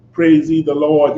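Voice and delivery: mockingly pious praise. Preacher mimicking hypocrites professing holiness, mock pious. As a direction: imitate a sanctimonious believer praising. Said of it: "as a holier than thou".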